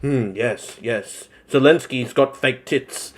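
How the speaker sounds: quiet mock pondering; Ian Miles Chong. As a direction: murmur it like a self-satisfied sage. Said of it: "and then Ian's like".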